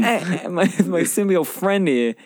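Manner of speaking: slow, drawn-out mock accent; Christopher Walken. Co-host topping the impression, slow and drawn out. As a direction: stretch the words in a joking impression. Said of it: "like a young Christopher Walken".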